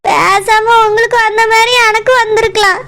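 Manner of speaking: drawn-out, tearful agreement. Acted. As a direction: agree slowly through held-back tears. Upset woman confiding, cry heard.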